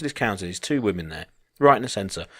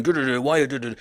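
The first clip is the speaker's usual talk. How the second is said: imitated chuntering in nonsense syllables; garbled mock telling-off with stray words; 4 semitones higher, faster than usual. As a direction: gabble a mock scolding. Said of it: "he's still chuntering in English".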